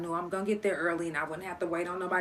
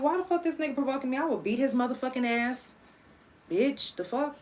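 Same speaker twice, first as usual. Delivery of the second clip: mock furious inner rant; 5 semitones higher, 4 dB quieter than usual. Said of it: "So I was pissed".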